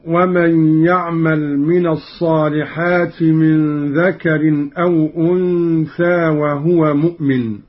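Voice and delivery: measured, chanted verse; Quranic recitation. Shown as a demonstration. (تلاوة مرتلة)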